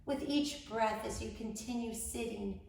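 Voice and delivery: measured meditation voice with long pauses; guided meditation. Acted. Host leading incarcerated women into grounding, measured guided meditation. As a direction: guide them gently, phrase by phrase.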